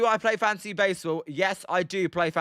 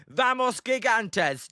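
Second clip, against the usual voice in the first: Spanish pronunciation; 4 semitones higher, slower than usual. Shown as a demonstration. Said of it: "No, it's Spanish".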